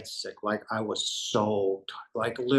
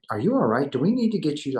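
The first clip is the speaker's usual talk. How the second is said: concerned; 4 semitones higher, 5 dB louder, faster than usual. Retold or imitated. Police checking on shaking speaker.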